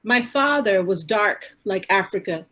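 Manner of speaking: measured recital with pauses between lines; poetry reading. Acted. Poet reads her mother's poem about roots and culture, measured recital. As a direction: recite it line by line, letting each one land.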